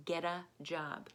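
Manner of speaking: quick run-together get a, T as a D; fast connected speech. Shown as a demonstration. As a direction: rattle it off like natural speech. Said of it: "If you're saying it fast".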